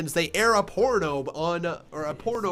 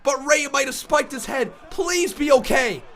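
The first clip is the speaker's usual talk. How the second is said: worried commentary; 6 semitones higher than usual. Real, not acted. Shaken after a botch.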